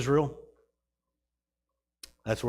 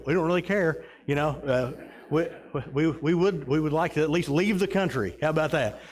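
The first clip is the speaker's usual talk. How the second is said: exasperated plea; 5 semitones higher, 3 dB louder than usual. Retold or imitated. Pleading with airline agent.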